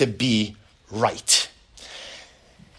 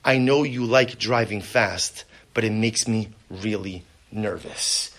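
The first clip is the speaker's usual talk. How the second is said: gentle; slower than usual. Shown as a demonstration. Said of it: "versus saying".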